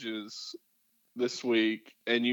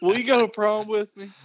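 tough-guy challenge; 9 semitones higher, 4 dB louder than usual. Retold or imitated. Quoting movie line tough guy.

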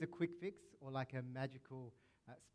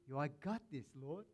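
cocky Peter. Retold or imitated. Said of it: "what Simon Peter sounds like".

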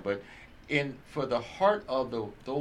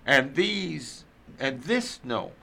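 scripture reading. Acted. Reader giving Luke twelve to responsive listeners, emphatic scripture reading. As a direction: proclaim each phrase deliberately, stretching key words.

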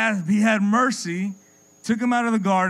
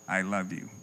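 programmed wife; 11 semitones lower, 10 dB quieter than usual. Pretend. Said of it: "I said".

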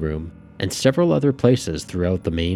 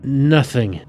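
trance voice; 7 semitones higher, 4 dB louder, much slower than usual. A narrator's reading. Penny in a trance.

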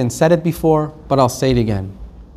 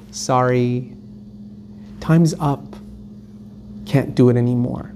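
indifferent refusal; 5 semitones lower, 7 dB quieter than usual. Acted. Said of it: "and then someone says".

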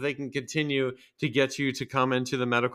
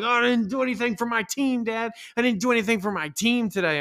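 mock sulky kid; 8 semitones higher than usual. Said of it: "I was all like".

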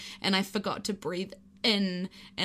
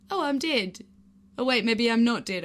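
confused realization; 3 semitones higher, 5 dB louder than usual. Retold or imitated. Confused inner voice mid fall.

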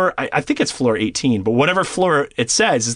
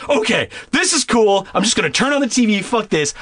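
retold self-talk; 6 semitones higher than usual. Acts out panicked self-talk in room.

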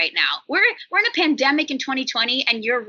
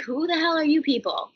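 raised, baffled demand; mock bewildered; 6 semitones higher than usual. Meeting trench-coated strangers in sweats, mock bewildered. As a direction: act stunned by the strangers. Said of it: "And I'm like".

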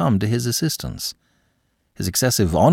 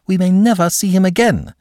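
desperate plea; 11 semitones higher, 5 dB louder than usual. Acted. Aline pleading with uncle.

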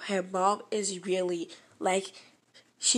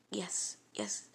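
much softer whispered yes; meek reply; 3 semitones lower, 9 dB quieter than usual. Retold or imitated. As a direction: answer timidly under the breath. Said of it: "And I was like".

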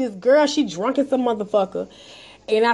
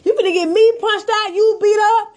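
high-pitched, agitated re-enactment of a warning; retold urgent warning; 6 semitones higher than usual. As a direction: re-enact pleading hard with a careless friend. Retells urgently warning the friend.

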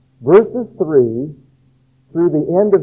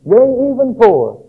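higher, ringing prophetic proclamation; modern prophet proclaiming; 5 semitones higher than usual. Pretend. A prophet today warning the churches, higher and ringing. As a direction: thunder it out like an old prophet. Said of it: "we would put it somewhat like this".

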